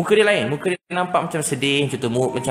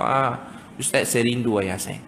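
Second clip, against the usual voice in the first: slow, lowered, mildly sorrowful admission; retold reluctant confession; 3 semitones lower, slower than usual. Boy admitting to the preacher he misses his father, understated sadness. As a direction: give in slowly with understated longing.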